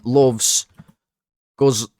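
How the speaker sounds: normal talking voice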